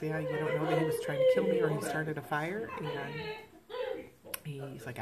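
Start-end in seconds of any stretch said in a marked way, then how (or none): 0.0-2.7 raised confrontation. Retold or imitated. Confronting the dad.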